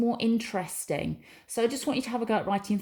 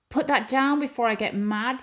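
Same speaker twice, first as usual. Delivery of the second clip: mock angry warning; 4 semitones higher, 4 dB louder than usual. Shown as a demonstration. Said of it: "there's some passion, some anger in that sentence".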